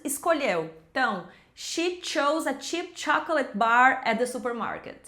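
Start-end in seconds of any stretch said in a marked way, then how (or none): 1.5-5.0 careful SH in "she", hard CH in "chose", "cheap", "chocolate"; tongue twister demo. Shown as a demonstration. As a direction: model each CH for learners to repeat. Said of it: "Tenta repetir aí esse trava-línguas". (trava-línguas bem articulado, para repetir)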